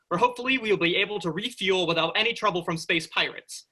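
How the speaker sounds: lightly mock-heroic captain's log. Daydreaming crewman recording his captain's log, mildly heroic. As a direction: play the bold starship captain, lightly. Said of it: "he speaks heroically into a tape recorder".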